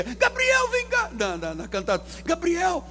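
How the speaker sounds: high squeaky mock panic; a frightened, fussing caricature calling angels; a very high, hammed-up frantic voice; mock panicky God. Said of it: "mocking a panicking God".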